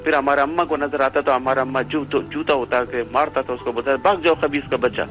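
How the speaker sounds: Pashto-tinged retelling, B for BH; Pathan neighbour. Retold or imitated. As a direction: tell it as an animated Pathan neighbour. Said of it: "वो एक Pathan family थी".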